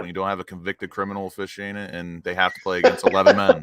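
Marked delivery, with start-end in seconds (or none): 2.8-3.6 emphatic outburst. Real, not acted. Jab at the referee, punchline.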